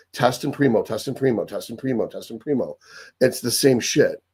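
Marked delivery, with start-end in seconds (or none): 0.1-2.8 mocking chant, softer each time; fading repetition. Mocking the bald priests' mantra, fading chant. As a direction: drone it like a mantra that dies away.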